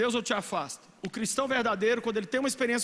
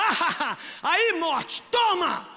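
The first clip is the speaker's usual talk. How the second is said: laughing taunt; 5 semitones higher, much slower than usual. Retold or imitated. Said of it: "Riu, você falou".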